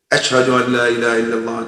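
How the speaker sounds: fast rote recitation mimicking a parrot; parrot reciting. Alim's parrot reciting the call in class, quick rote chant. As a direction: rattle it off like a bird repeating words. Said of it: "learned how to say".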